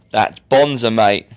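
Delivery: slow, badly faked Australian; terrible Australian accent. Podcaster guessing the man is an Aussie, terrible mock Australian accent. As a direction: put on a bad Aussie accent. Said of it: "which was my terrible Australian accent".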